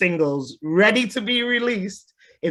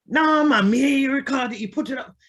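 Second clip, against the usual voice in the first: Jamaican patois; 9 semitones higher, 3 dB louder, faster than usual. Retold or imitated. Producer quoted, pitched up.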